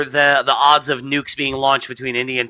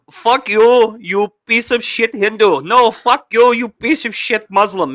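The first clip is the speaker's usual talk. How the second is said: higher, louder mock quarrel with South Asian accent; 8 semitones higher, 4 dB louder, slower than usual. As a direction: trade insults in a hammed-up South Asian accent. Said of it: "it's like".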